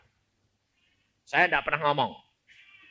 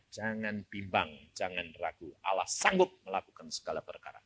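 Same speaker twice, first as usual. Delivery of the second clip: quiet reassurance; 8 semitones lower, 5 dB quieter than usual. Acted.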